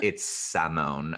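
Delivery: "Samone" drawn out, opening on "sam". Retold or imitated. Girl correcting how her name is said, slow "Samone" as sam-OHN. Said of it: "she literally was like".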